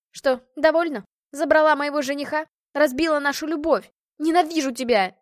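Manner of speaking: jealous woman shouting at her rival; furious outburst. Acted. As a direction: hurl hatred at the rival. Hanna screams at rival.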